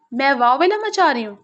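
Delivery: mild indignant heat, pitch lifting on the question; heated outrage. Acted. Rooha throws his accusation back at Zargham, mildly heated. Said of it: "وہ دہکتے لہجے میں پوچھتی".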